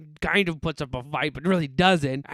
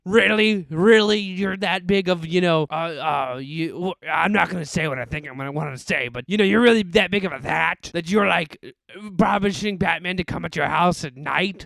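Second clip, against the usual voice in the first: exasperated. Retold or imitated. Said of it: "And I'm like".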